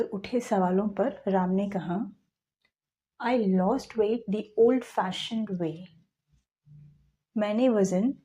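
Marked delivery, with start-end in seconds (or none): 3.2-5.9 1 very slow read-aloud. Shown as a demonstration. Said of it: "teacher reads Ram's quote aloud".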